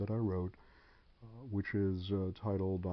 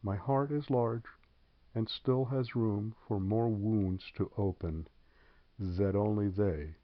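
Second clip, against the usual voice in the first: measured recital with deliberate pauses; poetry reading. Acted. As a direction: read it as your own poem, phrase by phrase.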